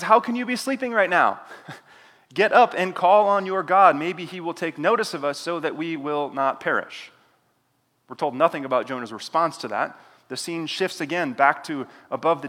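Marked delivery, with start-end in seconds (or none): 0.0-7.1 raised, higher voice shaking a sleeper awake; urgent captain. Acted. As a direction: rouse him, alarmed and pressing. Captain wakes sleeping Jonah.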